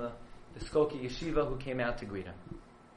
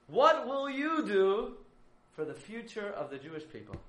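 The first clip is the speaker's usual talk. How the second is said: loud cry; 7 semitones higher than usual. Retold or imitated. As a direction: call out the question. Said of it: "first take, called out".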